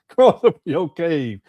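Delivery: slow, laughing through the mocking quote. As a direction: drag it out while cracking up. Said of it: "why you gotta talk like this".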